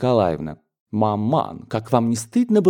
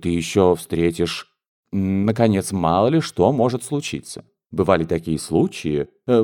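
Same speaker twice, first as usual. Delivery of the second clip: lower, hesitant, searching for words; mother groping for excuses, a touch uneasy; lightly voiced flustered mother; 3 semitones lower than usual. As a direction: stall for time without a reason. Mother fumbling advice.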